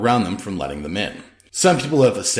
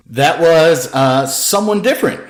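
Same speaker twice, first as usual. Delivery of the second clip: mild defensive; 7 semitones higher, 8 dB louder, slower than usual. A narrator's reading. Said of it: "offered defensively".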